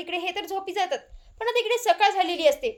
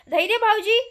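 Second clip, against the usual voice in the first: louder, calling across the house; calling out loudly; 3 semitones higher, 4 dB louder than usual. Retold or imitated. Sister-in-law loudly calls for Dhairya. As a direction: call out for her brother-in-law. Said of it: "ती जोरजोरात बोलते".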